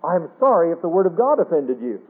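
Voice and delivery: mock apology that shifts the blame; a touch of smug non-apology; self-righteous non-apology. Shown as a demonstration. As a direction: say sorry without meaning it. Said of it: "I would never go back and say".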